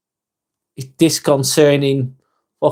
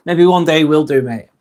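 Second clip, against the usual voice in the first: laughing shout. Real, not acted. Laughing at a chat comment.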